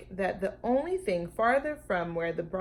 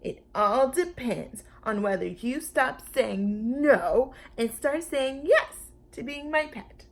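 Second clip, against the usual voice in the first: put-on lightly raised, pushy kid voice; bossy little girl; 5 semitones higher than usual. Lulu bargaining with the dinosaur, a bit bossy. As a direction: press the deal like a bossy girl.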